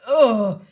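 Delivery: disgusted groan. Real, not acted. Disgust at the accent being described.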